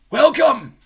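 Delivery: put-on high, loud grand old wizard voice; Dumbledore welcoming. A narrator's reading. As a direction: greet the school grandly. Dumbledore greets students.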